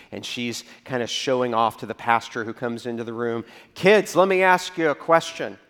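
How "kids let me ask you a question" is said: put-on higher, louder sing-song teacher voice to kids; sunday school teacher. Teacher showing off to the pastor, a higher, louder teacher voice. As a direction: perform for the class and the pastor.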